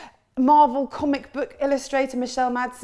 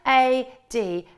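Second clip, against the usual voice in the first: slow letter-by-letter spelling; 3 dB louder, slower than usual. Shown as a demonstration. Poet spelling her surname for the audience, slow and clear. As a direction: spell out each letter of the surname slowly. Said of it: "it's Madsen".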